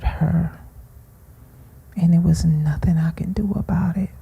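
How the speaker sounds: barely whispered, breath almost gone; real grief pressing the voice down to a whisper; grief-stricken hush. Real, not acted. Mother recalling her murdered daughter, broken whisper.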